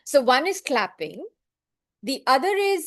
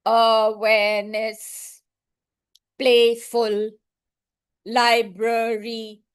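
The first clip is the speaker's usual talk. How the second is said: slow, evenly beaten robot syllables; teacher showing children robot-style syllables; much slower than usual. Shown as a demonstration. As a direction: say the words like a robot. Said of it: "robot style".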